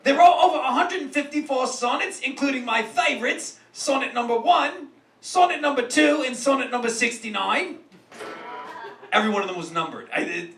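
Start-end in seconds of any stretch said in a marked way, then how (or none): 0.0-7.8 put-on half-committed British accent; mock British accent. Roast host listing favorite sonnets, mock British accent.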